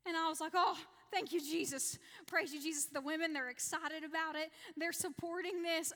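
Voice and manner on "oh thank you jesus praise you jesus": louder, relieved burst of thanks; joyful relief. Retold or imitated. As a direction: blurt it out gratefully, a touch louder. Relief as the step held.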